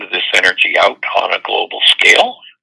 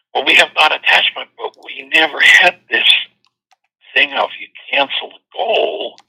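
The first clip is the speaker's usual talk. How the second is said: quoted Tibetan refugee; 6 semitones higher than usual. Acted. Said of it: "he's like".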